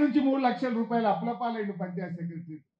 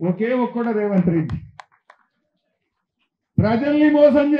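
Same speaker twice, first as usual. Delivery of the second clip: loud accusation; 6 dB louder than usual. Real, not acted. Rally accusation against chief minister.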